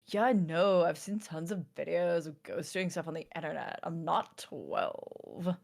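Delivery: lightly voiced surfer dude. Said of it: "what was it, Surfer Dude voice?".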